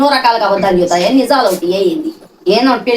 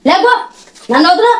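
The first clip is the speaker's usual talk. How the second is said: angry refusal; 5 semitones higher than usual. Real, not acted. Mother angrily refusing son.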